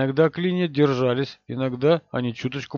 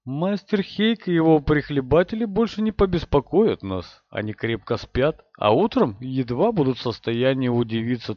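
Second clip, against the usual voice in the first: oily, smug voice. Acted. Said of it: "елейно вкрадчивый и самовлюблённый".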